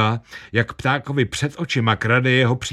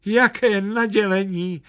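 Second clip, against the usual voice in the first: put-on much higher, moved old lady cry; tearful yelp; 10 semitones higher than usual. A narrator's reading. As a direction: yelp it, close to tears with joy. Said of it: "vyjekla stará paní". (vysoké dojaté vyjeknutí)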